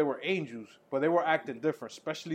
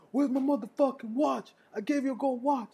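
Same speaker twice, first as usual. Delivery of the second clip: mock demand; 10 semitones higher than usual. Inmate demanding the watch.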